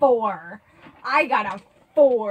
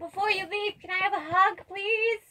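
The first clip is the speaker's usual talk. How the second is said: put-on high, small kid voice; plaintive tot asking a favor; pleading little child; 8 semitones higher than usual. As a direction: beg sweetly in a child's high pitch. Child character begs for hug.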